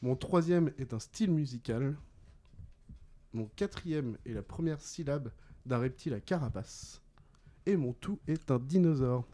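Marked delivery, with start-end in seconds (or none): 3.3-7.0 deliberate, softer clue-giving; measured riddle reading. Real, not acted. Quizmaster gives players the reptile clue, measured. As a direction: pause between parts of the clue.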